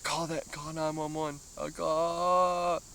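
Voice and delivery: high, frantic retold plea with a laugh breaking in; panicked cry. Retelling to the viewers his frantic plea for an ambulance, high and panicked. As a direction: squeal it out like you're losing it. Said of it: "But I was freaking out".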